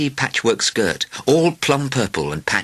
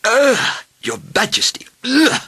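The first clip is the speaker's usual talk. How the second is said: high, loud cries of disgust; shouting doctors; 4 dB louder, slower than usual. A narrator's reading. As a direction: cry out in revulsion to the king, pitched way up. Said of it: "shouted the doctors".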